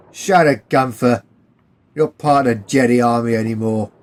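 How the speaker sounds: Stanley yelling at the German to shut up. A narrator's reading. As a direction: shout him down hard. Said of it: "yelled Stanley".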